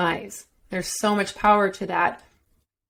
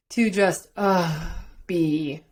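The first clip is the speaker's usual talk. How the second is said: relaxed sigh, dropping lower; letting go; 3 semitones lower, much slower than usual. Shown as a demonstration. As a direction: let it out and settle into the last word. Modelling permission to simply be.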